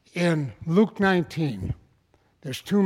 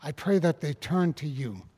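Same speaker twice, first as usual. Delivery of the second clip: prayer. Acted. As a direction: pray over the congregation. Closing prayer.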